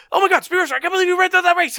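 high, fast, excited cartoon gush; fast anime dub voice. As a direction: rattle it off like an old dub. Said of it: "that's how everyone talks in the show".

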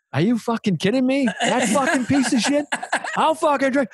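high-pitched mock outrage; retold drunken anger. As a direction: play the insulted drinker. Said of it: "I remember getting mad".

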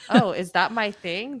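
mock surprised laugh. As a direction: laugh at your own discovery. Retelling own surprised reaction.

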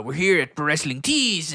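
slow, lightly put-on character voice; mild wrestler impersonation; Danhausen. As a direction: draw it out as an odd persona. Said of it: "that's how he talks the whole time".

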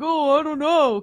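lightly mocking, shrugged-off excuse; dismissive attitude. Handyman brushing off her complaint about dead lights, dismissive. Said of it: "kinda attitude about it".

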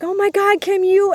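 high-pitched excited spectator call; imitated cheering. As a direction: imitate an onlooker calling out in amazement. Retold cheering of onlookers.

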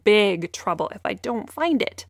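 put-on a pleading young girl asking for help; little girl voice. Lily's voice, worried child.

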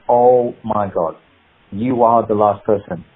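slow, low, understated shock; stunned realisation. Retold or imitated. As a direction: imitate someone slowly taking it in. Retells actor's stunned realisation.

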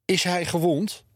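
high, alarmed question, as if panting. A narrator's reading. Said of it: "hijgde tante Sientje". (hijgend, hoog en geschrokken)

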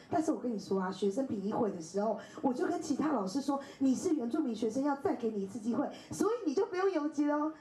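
mock the teacher bubbling over; excited teacher. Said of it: "他很兴奋". (模仿老师越说越兴奋)

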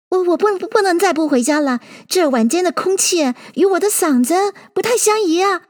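high, stammering, hurried magpie; jittery high-pitched fussing; flustered excuse. A narrator's reading. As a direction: stammer nervously, then excuse yourself. Flustered magpie excusing itself to leave.

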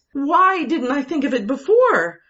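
high, loud, feverish questions; wife elated at her plan; excited demand. A narrator's reading. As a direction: press him, giddy with the idea. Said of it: "she demanded".

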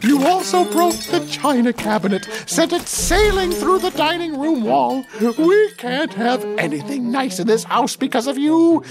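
hammed-up angry mother; screaming mother. A narrator's reading. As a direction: scream up at the giant son. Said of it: "she screamed up at her son".

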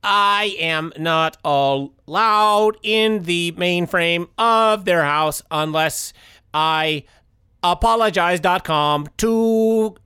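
slow, flat robot voice. Acted. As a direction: stiff robot monotone. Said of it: "Robot Tim".

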